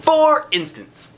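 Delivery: high, slow sing-song for instance; drawn-out singsong aside to the listening kids; playful refrain. A narrator's reading. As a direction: stretch it out up high like a teasing refrain.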